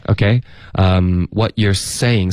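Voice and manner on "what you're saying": slow "what you're saying" with a clean hissed s; slowly, distinct s starting "saying"; model s in saying. Shown as a demonstration. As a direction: demonstrate a clear s in "saying". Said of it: "思的音呢".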